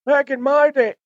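mock the old-timer complaining; grumpy old-timer. Mocking veteran wrestlers who grumble, in a cranky old-man voice.

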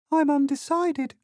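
tiny, very high-pitched mouse. A narrator's reading. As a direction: pipe up in a high little voice. A mouse pipes up in debate.

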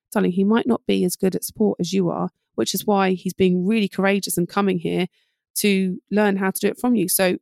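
patient parent. Retold or imitated. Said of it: "You'll say".

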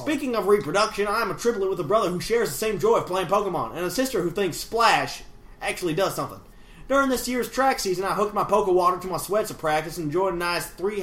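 put-on hillbilly accent with lively swings. Host reading a listener's email in character, hillbilly accent. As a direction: read it as an animated hillbilly. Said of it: "part hillbilly".

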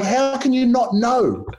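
high, slow disbelief; dad stunned his son doesn't know, high and slow; incredulous dad. Retold or imitated. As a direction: drag it out in disbelief. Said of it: "He's like".

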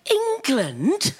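incredulous. Retold or imitated. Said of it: "She was like".

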